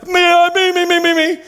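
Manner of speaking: mock an old man jumping at every bid; eager dad bidding. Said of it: "My dad is always".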